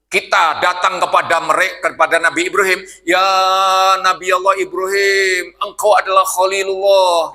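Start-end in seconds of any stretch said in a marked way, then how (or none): 3.0-7.3 pleading to the prophet. Retold or imitated. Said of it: "gitu kan bahasa kita".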